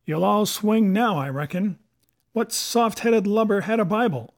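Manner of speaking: lightly voiced pirate leader scolding his crew; Silver, scornful. A narrator's reading.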